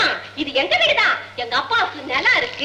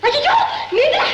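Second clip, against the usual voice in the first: surprised; 10 semitones higher, 4 dB louder than usual. Acted. Girl surprised by her lover.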